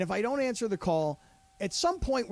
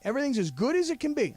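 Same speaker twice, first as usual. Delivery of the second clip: imitating friend's odd phrase; 6 semitones higher than usual. Repeating the caller's line to the host, mock voice. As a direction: ham up the friend's strange insistence. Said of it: "What kind of accent is that?".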